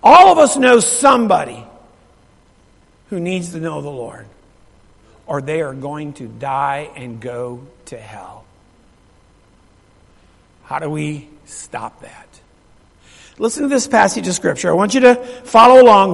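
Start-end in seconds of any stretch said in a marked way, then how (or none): 3.1-12.3 slow, low and soft; grave, hushed warning. Real, not acted. Preacher warning church about the lost, grave and hushed. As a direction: weigh each word gravely, dropping the voice.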